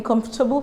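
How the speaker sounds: "comfortable" as KUMF-tuh-bul; "comfortable" in three syllables; silent O. Shown as a demonstration. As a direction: drop the O in "comfortable". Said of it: "You have to silent the letter O".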